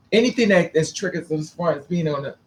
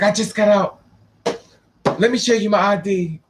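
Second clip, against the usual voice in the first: loud proud ex-con; 4 semitones higher, 4 dB louder than usual. Retold or imitated. Voicing a proud ex-convict.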